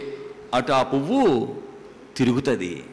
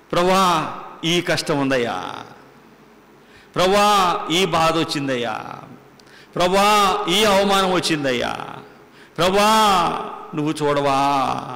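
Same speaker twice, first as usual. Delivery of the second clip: pleading cry; 3 semitones higher than usual. Retold or imitated. Preacher retells own crying prayer.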